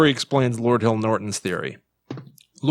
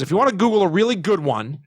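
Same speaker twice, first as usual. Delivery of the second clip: Aykroyd impression; 5 semitones higher than usual. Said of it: "he's both fast and slow on this one".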